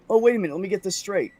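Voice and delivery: wait-what outrage at the boss; indignant disbelief. Real, not acted. Indignant at being sent home.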